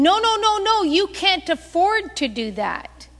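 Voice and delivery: high, loud acted protest; imitating an alarmed, insistent relative; insistent objection. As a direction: cut in to forbid it. Relative insisting she cannot give.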